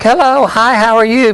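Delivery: high, sweet lady's greeting; high woman voice. Acted. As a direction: chirp it like a polite lady. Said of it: "being the woman".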